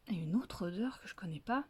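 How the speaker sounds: fast, hushed whisper to himself; wary fox whispering; suspicious whisper. Acted. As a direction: whisper it as if the tree might hear. Fox sniffing suspiciously at the tree.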